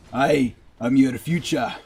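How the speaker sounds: put-on amateur Irish accent; loosely imitated Irish accent. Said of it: "my Irish accent is not that bad".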